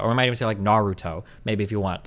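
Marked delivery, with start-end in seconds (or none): 0.6-1.2 Naruto with the stress moved to NA; English-style Naruto, front-stressed; shifted accent. Shown as a demonstration. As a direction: punch the first syllable of Naruto. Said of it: "put the accents around".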